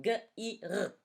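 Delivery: slow spelling. Shown as a demonstration.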